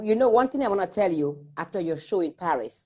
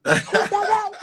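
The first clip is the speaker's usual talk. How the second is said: surprised; 11 semitones higher, slower than usual. Retold or imitated. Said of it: "I'm like".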